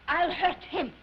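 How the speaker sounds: emphatic vow of revenge; defiant resolve. Acted. Singer turning the tables on impresario, defiant. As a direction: declare the threat firmly.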